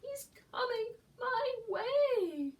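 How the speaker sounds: frightened. Acted. Eddie frightened.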